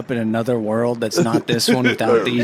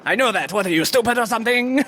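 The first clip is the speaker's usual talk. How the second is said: rude cat; 8 semitones higher, faster than usual. Acted. Rude talking cat answers.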